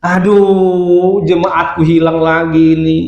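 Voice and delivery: drawn-out, wailing lament; mock crying devil. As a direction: moan like a devil losing his flock. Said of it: "nangis dia". (iblis pura-pura menangis meratap)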